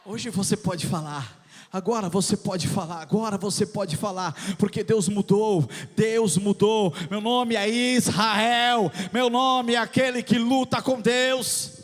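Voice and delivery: loud fervent preaching over music; preaching at full force. Acted. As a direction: proclaim it like a crescendo.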